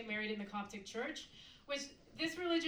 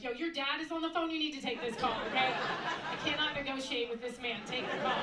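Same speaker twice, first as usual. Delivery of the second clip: exasperated interruption; 3 semitones higher, 7 dB louder than usual. Acted. Hamas man interrupting comedy class in Gaza, exasperated. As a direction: burst in and demand it be dealt with.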